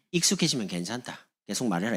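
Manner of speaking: understated Gyeongsang reply; Gyeongsang dialect. Acted. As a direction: imitate an unbothered Gyeongsang speaker. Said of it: "경상도". (담담한 경상도 사투리로)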